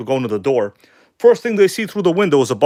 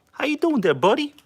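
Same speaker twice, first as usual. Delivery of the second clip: pet talk; 11 semitones higher than usual. Real, not acted. Greeting Sandy the cat, high cooing pet talk.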